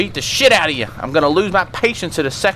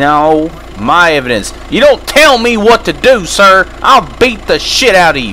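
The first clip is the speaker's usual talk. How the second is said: loud angry; 7 dB louder than usual. Acted. Cop angry at suspect.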